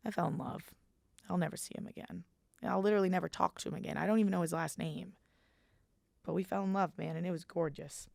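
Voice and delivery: soft wistful confession; dreamy. Real, not acted. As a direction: hush it like a sweet memory. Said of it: "dreamy softness".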